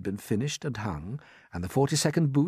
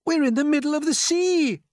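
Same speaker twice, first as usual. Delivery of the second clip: very high, louder alarmed cry; cried out; 8 dB louder than usual. A narrator's reading. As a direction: call it out in dismay. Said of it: "cried James".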